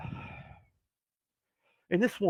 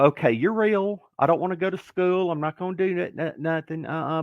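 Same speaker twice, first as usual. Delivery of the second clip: protesting; 5 semitones higher than usual. Retold or imitated. Retold protest in prayer.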